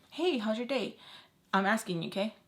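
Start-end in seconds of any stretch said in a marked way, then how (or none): 0.1-1.0 higher, perky acted greeting; example small talk. Shown as a demonstration. Giving listeners an example of asking him about his day, perky greeting. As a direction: put on a casual, upbeat question. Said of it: "It'd be like, example".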